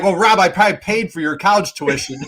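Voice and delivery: joking through laughter. Retold or imitated. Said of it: "I'm like".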